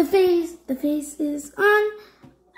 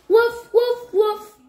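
high, playful pretend barks; dog woof; 5 semitones higher than usual. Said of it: "The dog says woof".

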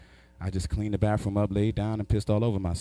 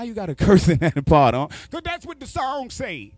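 uncle voice; 8 semitones higher, 6 dB louder than usual. Retold or imitated. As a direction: answer like the carefree uncle. Uncle answers in high voice.

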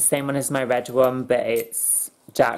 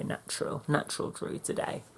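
whispered; 2 semitones higher, 10 dB quieter than usual. Real, not acted. Whispered caption.

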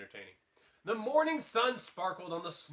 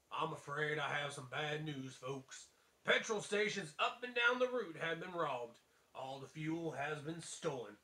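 Sheriff voice; 5 dB quieter than usual. Acted. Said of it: "I imagine that's what his voice sounds like".

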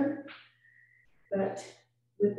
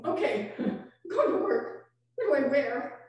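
laughing; 2 semitones higher than usual. Retold or imitated. Laughing retold self-talk.

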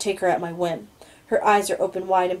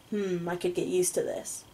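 a hushed, contented woman; soft young woman; 7 dB quieter than usual. A narrator's reading. Heroine voiced, soft and different.

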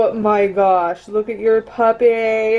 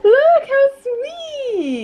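teary; 14 semitones higher, much slower than usual. Real, not acted. Touched by a friend's card.

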